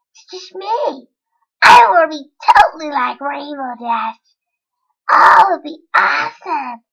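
lightly voiced young cartoon character; a hint of an eager character voice; Scootaloo. Pony cheering on Apple Bloom, lightly voiced character impression. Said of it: "that was my impression of Scootaloo".

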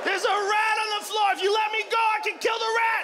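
high, urgent cat voice; shrieky, bloodthirsty cat begging; frantic pleading cat. Acted. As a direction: plead to be let loose on the prey, pitched high throughout. Struggling cat begging to kill rat.

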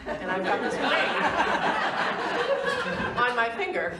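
words broken by a high laugh; laughing through words. Real, not acted. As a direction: let the laugh spill into the line. Laughing through the ring memory.

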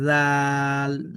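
জাল stretched slowly with a soft buzzing z; soft Arabic zal. Shown as a demonstration. Teacher showing soft জাল to learners, slow demo. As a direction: say জাল softly, long, voiced like th in this. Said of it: "নরম করে".

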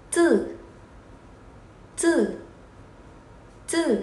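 "Chữ" as a tight ts sound without a puff; unaspirated z. Shown as a demonstration. Teacher drilling pinyin z, "Chữ" said with no aspiration. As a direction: hold the breath back on each high, falling "Chữ". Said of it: "Đây là âm không bật hơi".

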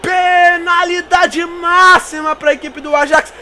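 rising, loud, then stretched out; penalty shout. Real, not acted. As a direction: call the penalty in triumph. Penalty awarded live.

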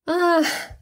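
a high, faked little laugh; mock chuckle to dodge the question; forced laugh. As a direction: pretend to laugh it off. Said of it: "zaśmiał się, a raczej udał".

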